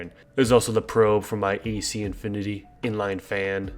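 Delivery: stuffy, blocked-nose voice; congested. Real, not acted. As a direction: talk through a congested nose. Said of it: "sorry if I sound a little bit congested here".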